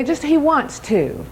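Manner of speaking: slow, "He" pressed hard: He wants to; stress on HE. Shown as a demonstration. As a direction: lean on "He" and let the words fall slowly. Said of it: "if you get nothing else today".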